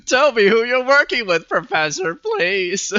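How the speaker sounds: very loud, high pleading demand; shouting. Retold or imitated. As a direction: beg at full volume, hammed up. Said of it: "he's literally shouting in his speech bubbles".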